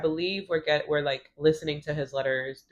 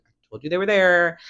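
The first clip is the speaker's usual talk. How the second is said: mildly irritated retort, louder; 5 dB louder than usual. Retold or imitated. She pulls the pills out for him, irritated. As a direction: imitate an annoyed I-told-you-so. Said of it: "walks up all irritated".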